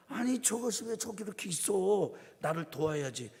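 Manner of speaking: a hammed-up irritated older sister; angry Martha. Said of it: "마르다가 성질을 확 내는 거예요".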